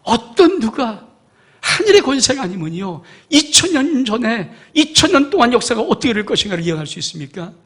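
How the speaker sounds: high, loud, driving sermon climax; fiery preaching. Acted. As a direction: preach it hard to the congregation. Preacher at full force.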